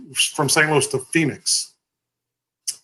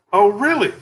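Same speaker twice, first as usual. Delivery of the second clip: higher-pitched imitation of the receptionist; retold skeptical reaction; 7 semitones higher than usual. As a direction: mimic her doubting a walk-in. Receptionist reacting to job seeker.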